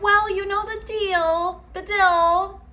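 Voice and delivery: high, bright, friendly sing-song lilt; imitating the mom being kind; upper inflection. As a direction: say it sweetly with a lift. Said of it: "There'd be a little, like, upper inflection".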